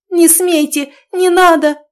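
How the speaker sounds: very high, loud desperate screams; wild pleading yell; frantic shouting. A narrator's reading. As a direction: scream to stop him at any cost. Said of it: "неистово кричала она".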